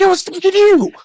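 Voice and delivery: high, loud accusing scream; screaming at him. Retold or imitated. Comic accusing calm Travis by the door, high scream. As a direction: re-enact screaming an accusation in someone's face. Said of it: "screaming at him".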